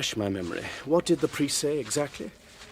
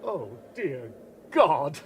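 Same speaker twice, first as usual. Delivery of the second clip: horrified gasp; 2 semitones higher, 4 dB quieter than usual. Acted. Horror at what he sees.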